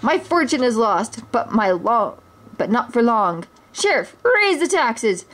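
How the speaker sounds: a hint of a petty tyrant; cruel snarl. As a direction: bark orders at the sheriff. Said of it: "Prince John snarled cruelly".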